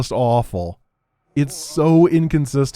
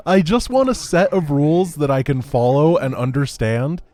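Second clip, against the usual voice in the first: higher, half-crying complaint; teary laughing plea; 4 semitones higher than usual. Real, not acted. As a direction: plead through a wobbly laugh. Frustrated, cry-laugh.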